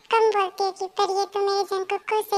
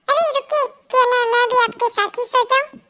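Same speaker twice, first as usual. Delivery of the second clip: higher, playful stop-him call; wife cheekily stopping husband going to bed; cheeky call; 3 semitones higher, 4 dB louder than usual. Acted. Flirty raised coaxing call.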